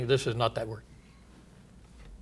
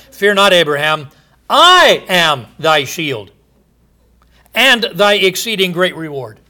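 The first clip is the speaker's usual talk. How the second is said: booming scripture quote; 3 semitones higher, 7 dB louder than usual. Acted. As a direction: proclaim it like the Lord speaking. God's words read from scripture.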